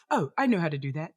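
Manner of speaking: failed British accent, barely British. Shown as a demonstration. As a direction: try a British accent and miss. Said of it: "That was my British accent that didn't come off British at all".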